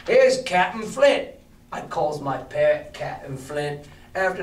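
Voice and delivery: lightly voiced jolly pirate, slowed on the parrot; a friendly old sea cook, hammed up a little. Silver welcoming the boy, lightly voiced pirate. Reads Silver's lines aloud.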